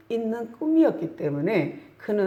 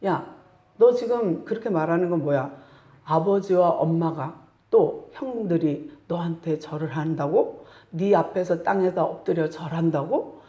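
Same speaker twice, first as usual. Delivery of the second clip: father's angry retort. Retold or imitated. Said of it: "아버지도 버럭 화를 냅니다".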